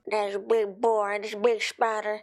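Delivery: lightly hammed-up Australian accent; a playful Aussie twang, said with a grin; mock Australian accent. Reactor echoing the video in a jokey Australian accent. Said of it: "I lied".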